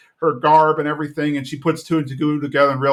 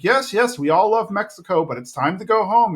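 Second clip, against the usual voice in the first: lightly mimicked Peggy; 7 semitones higher than usual. Peggy voiced, high.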